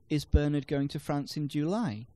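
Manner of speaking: "July" lifted at the end; stress on JULY. Shown as a demonstration. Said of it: "can place the stress on different words".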